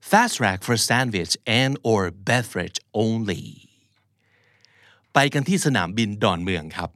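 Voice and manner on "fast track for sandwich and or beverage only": slow read, "fast" stressed; stress drill. Shown as a demonstration. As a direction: lean on "fast" and go slowly. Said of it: "อีกทีหนึ่งนะครับ หนึ่ง สอง สาม". (เน้นคำว่า "fast" อ่านช้าๆ)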